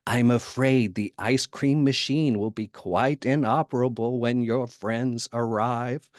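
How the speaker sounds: slow, sinister emperor drawl; slow menacing Sith lord voice; Palpatine impression. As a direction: savour every word like a scheming emperor. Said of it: "I could totally hear Emperor Palpatine say".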